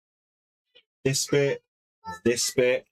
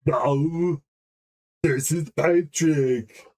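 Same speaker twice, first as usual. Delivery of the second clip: slow, dopey Patrick Star voice; slow, lightly voiced dim cartoon starfish; much slower than usual. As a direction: drag out each word like a dim starfish. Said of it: "I think he sounded like this".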